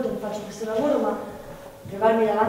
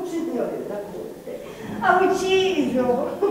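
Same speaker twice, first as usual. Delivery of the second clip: slow laughing admission; 3 semitones higher, much slower than usual. Acted.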